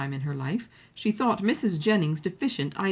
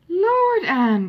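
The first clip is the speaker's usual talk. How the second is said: sharp high cry of reproach; exclaiming; 10 semitones higher, 7 dB louder than usual. A narrator's reading. Lucy scolding her chattering sister Anne, high exclaiming. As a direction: cry out at your sister, pitched up. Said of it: "cried her sister".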